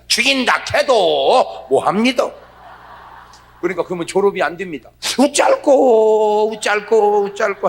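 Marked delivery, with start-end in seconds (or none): 0.1-2.3 slow, drawn-out flat-out refusal, louder; stubborn loud refusal. Retold or imitated. A Gyeongsang husband telling the teacher he'll never say it, stubborn and loud. 5.2-7.7 slow, louder, agonized fretting; fretful dithering. Retold or imitated. A husband agonizing over the love homework, fretful.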